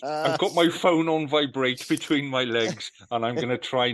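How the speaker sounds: amused mock quote. Host quoting co-host's innuendo back, amused. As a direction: repeat it back, highly amused.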